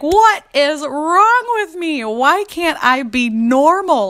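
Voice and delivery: high, very slow wail through laughter; hammed-up despair, laughing. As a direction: moan it in comic self-pity. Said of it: "But I was like".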